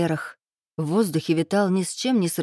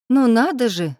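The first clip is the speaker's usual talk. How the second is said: louder, higher admiring exclamation; admiring drawl; 5 semitones higher, 5 dB louder than usual. A narrator's reading. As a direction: draw it out, impressed. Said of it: "восхищённо протянула Ирка".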